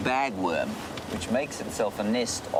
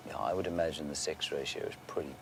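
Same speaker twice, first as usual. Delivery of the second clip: whispering; 3 semitones lower, 6 dB quieter than usual. Real, not acted. Trailing off, whispering near elephants.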